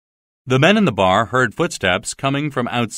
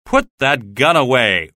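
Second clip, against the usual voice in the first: stern order; 3 dB louder than usual. Acted. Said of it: "ordered the police officer".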